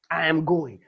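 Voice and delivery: am pressed firmly; stress on am. Shown as a demonstration. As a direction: insist on am. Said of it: "there's nothing that can stop me".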